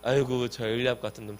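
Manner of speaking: low, muted brush-off; acted weary disregard; dismissive. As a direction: shrug him off under your voice. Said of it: "엘리압은 무시할 놈들이야".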